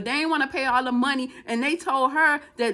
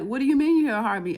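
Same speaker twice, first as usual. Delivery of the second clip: fast, louder incredulous question; disbelieving; 5 dB louder, faster than usual. Retold or imitated. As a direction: question the doctor in quick disbelief. Woman shocked by doctor's news.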